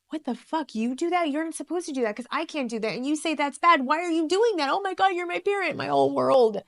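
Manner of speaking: put-on high-pitched outraged kid's voice; high, loud, betrayed child's outburst; shocked kid. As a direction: squeal it out in high disbelief like a scandalised child. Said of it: "you're probably like".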